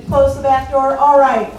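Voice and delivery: firm call to shut the door. Real, not acted. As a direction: call it to the back of the hall. Calling to close the door.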